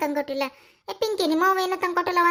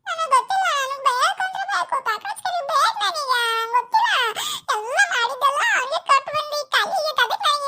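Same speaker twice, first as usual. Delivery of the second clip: whiny tantrum; 4 semitones higher than usual. Acted. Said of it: "ಅಳ್ಬೇಡ ಅಂದ್ರೆ ಅಳ್ತಿ".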